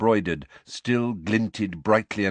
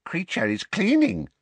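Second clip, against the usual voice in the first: high elf voice, stubborn repeat; 13 semitones higher, 4 dB louder than usual. A narrator's reading. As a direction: say it again, stubbornly. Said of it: "the elf repeated".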